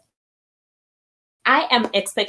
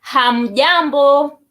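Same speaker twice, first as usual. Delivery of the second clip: Hamjambo said louder, higher and slow; emphatic demo; 4 semitones higher, 4 dB louder, slower than usual. Shown as a demonstration. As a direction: call hamjambo out to all. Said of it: "And then".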